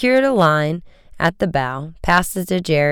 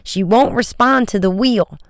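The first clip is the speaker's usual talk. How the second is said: shout over engine; 6 semitones higher, 3 dB louder than usual. A narrator's reading. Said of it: "Joe shouted".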